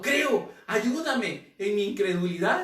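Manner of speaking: high, loud cry of faith; a father crying out to Jesus. Acted. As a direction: cry it out aloud. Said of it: "le dijo en viva voz clamando".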